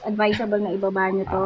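muffled behind face shield; talking inside helmet; through a closed helmet visor. Real, not acted. Seen 0: Woman lowers clear helmet visor over her mouth while talking, likely speaker.

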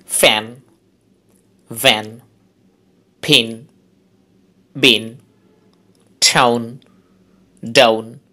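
ফ্যান, ভ্যান, ফিন each stressed alone, with falling pitch; stressed monosyllables. Shown as a demonstration. Teacher demonstrates one-syllable words from ফ্যান to বুল, each stressed. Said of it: "stress সহ উচ্চারণ করতে হবে".

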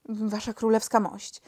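usual speaking voice

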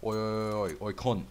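loud rapid oi calls at the enemy; yelling oi. Real, not acted. Gamer yelling at an enemy bot, loud. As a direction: bark oi oi oi at the bot.

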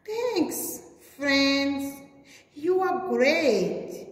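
a touch of joyful praise; grateful thanks. Acted. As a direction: thank them with full heart. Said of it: "praised Jake".

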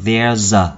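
"there's a" said joined, the z sliding into A; linked sounds. Shown as a demonstration. Teacher showing learners how to link "there's a", linked sounds. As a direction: run THERE'S into A as one word. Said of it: "chúng ta nối âm thành".

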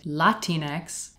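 put-on Latinx as "LAH-teen-ex"; article's pronunciation of Latinx. Shown as a demonstration. Presenter quotes an article's advice, Latinx as "LAH-teen-ex". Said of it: "says you should pronounce it".

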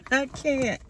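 laughing at her own impatience. Real, not acted. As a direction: giggle breaking into I can't.

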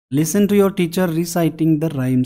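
slow reading aloud. Shown as a demonstration. Reads instruction slowly.

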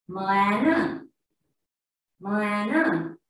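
Moana blended as "muh-a-nuh"; misread with wrong sounds. Shown as a demonstration. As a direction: draw out Moana from separate letter sounds, ending in "uh". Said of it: "read these words using that sound".

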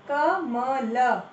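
कमल split slowly into क-म-ल; syllable by syllable. Shown as a demonstration. Teacher sounding out कमल slowly for children. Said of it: "सही उच्चारण करो".

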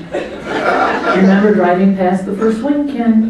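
slow, loud, laughing tease; teasing reminder. Retold or imitated. Teacher reminds the ornery student of the prank, teasing. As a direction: needle him with a grin.

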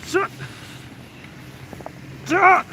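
loud excited start call; sledding downhill. Real, not acted. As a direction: shout go as the ride starts. Shouting start of sled ride.

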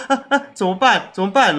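high, flustered mock panic; imitating a worker who panics over the spill; panicked cry. Retelling the flustered delivery worker's panic, in a high voice.

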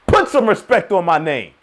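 proud, demanding retort; mild mock defiance; demanding respect. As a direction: put some respect on it. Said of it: "I'm like".

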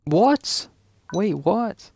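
sudden high startled yelp; loud surprised yelp; shocked what. Real, not acted. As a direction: jolt up at the shock.

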